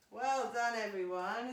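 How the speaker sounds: well done called out loud to the room; loud praise. Real, not acted. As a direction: call the praise across the studio. Praising whole class across room.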